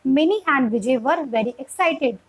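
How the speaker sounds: slow, clear reading in one connected phrase; flowing model reading. Shown as a demonstration. Teacher showing the flow of reading, slow and connected. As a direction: read it evenly, then stop at the full stop. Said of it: "जब full stop आएगा".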